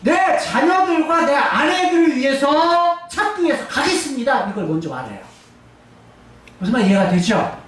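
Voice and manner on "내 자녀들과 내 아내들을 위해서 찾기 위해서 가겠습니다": half-acted plea to God, rising with a laugh; lightly voiced David begging for his family; David pleading. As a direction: speak as David pressing God to let him go. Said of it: "히브리 원문에서는".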